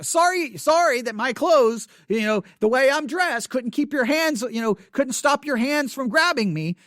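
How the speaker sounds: mock-sorry, dripping with sarcasm; sarcastic. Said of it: "very sarcastic".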